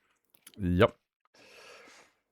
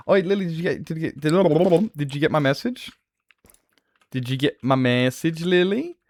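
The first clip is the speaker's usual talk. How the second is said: calling out; 9 semitones higher, 3 dB louder than usual. Real, not acted. Calling out to Lily.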